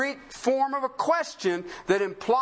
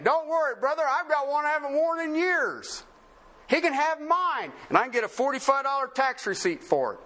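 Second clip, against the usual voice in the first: lightly acted generosity, pitched up then easing down; mock-generous donor; 4 semitones higher than usual. Donor handing a missionary his old suit, mock-generous. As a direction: put on a hint of big-hearted reassurance.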